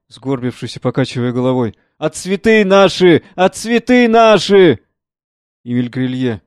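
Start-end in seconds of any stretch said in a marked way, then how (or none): 2.0-3.2 slow, mournful wail over the flowers; weeping lament. Acted. Old gardener weeping over his flowers, slow lament. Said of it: "плачет". 3.4-4.8 higher, slow, wailing grief; louder weeping lament. Acted. Old gardener weeping over his flowers, wailing louder. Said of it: "плачет".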